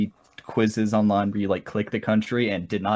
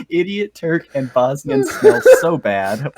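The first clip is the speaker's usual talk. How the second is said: laughing mock shout; 4 semitones higher, 6 dB louder, slower than usual. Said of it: "the official lyrics".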